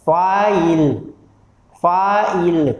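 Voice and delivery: "फाइल" drawn out, final ई silent; pronunciation demo. Shown as a demonstration. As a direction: say "फाइल" clearly as fa-il, ending on the L. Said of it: "तो आप बोलते हैं". ("फाइल" साफ़ उच्चारण, आख़िरी ई चुप)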